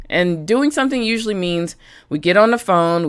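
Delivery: normal talking voice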